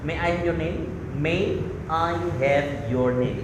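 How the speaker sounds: very slow, careful and polite, lightly American; polite English. Shown as a demonstration. Showing the polite way to ask a foreigner's name, slow. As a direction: draw out May I have your name courteously. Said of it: "Itu lebih bagus sih".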